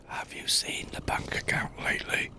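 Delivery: hushed unvoiced whisper. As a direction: whisper it into the mic. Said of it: "why are you whispering into the microphone".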